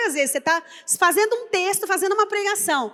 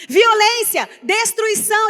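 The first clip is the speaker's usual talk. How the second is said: loud, higher-pitched cry of warning; prophet's shout; 5 semitones higher, 6 dB louder, slower than usual. Acted. Preacher voicing Jeremiah shouting judgment to the people, loudly. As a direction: proclaim each word forcefully, like a prophet. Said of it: "ele tinha que gritar".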